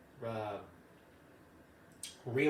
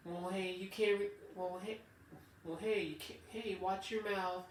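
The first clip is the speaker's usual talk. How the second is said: mama boss scolding; 5 semitones higher, 4 dB quieter than usual. Retold or imitated. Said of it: "they would just talk to you like".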